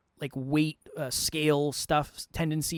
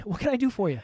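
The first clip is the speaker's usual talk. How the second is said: laughing; 5 semitones higher, faster than usual. Real, not acted.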